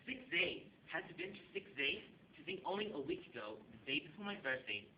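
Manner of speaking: theatrical monologue with lifted, wandering pitch; dramatic monologue. Acted. Actor auditioning with a monologue, dramatic delivery. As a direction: act it out as a stage monologue.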